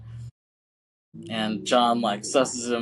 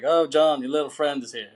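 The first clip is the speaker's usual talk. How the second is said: lightly voiced auntie, pitched up at the start; auntie at door; 3 semitones higher than usual. Auntie announcing a visitor to her nephew, lightly imitated. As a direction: call out a teasing announcement, as an imitated aunt. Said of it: "It's just funny how she says it".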